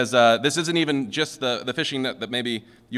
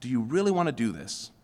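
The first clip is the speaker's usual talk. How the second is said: doubtful tone. Pretend. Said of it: "Peter is using his ... tone of voice".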